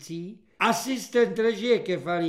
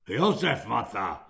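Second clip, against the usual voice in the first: calm; 7 semitones lower than usual. A narrator's reading. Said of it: "řekl klidně kulak".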